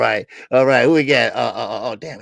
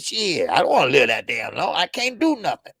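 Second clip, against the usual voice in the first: retold protest, rising into laughter; louder mock complaint that climbs high and cracks up; playful imitation of mom grumbling; imitating blunt mom; 4 semitones higher, 5 dB louder than usual. Voices mom's blunt funny reply.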